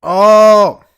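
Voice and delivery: very high, loud exclamation of discovery; sudden realising shout. Real, not acted. Gamer suddenly realising the fix, loud surprised cry. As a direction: burst out as it clicks.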